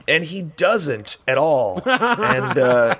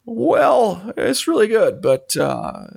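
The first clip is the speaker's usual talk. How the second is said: higher, tactful hedging director; George Lucas; 7 semitones higher, much slower than usual. Acted. Director avoiding telling actress it's terrible, lightly acted hesitance. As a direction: praise it, then falter diplomatically. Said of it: "you need to be George Lucas".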